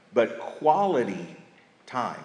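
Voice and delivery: slow, weighted "quality time"; slow stress on quality. Shown as a demonstration. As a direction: lean hard on "quality". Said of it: "Emphasis on the quality".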